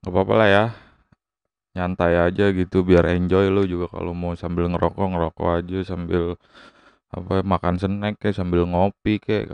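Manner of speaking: talking around a lit cigarette; cigarette in mouth. Real, not acted. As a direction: speak with a cigarette between the lips. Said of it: "saya sambil ngerokok aja kali ya".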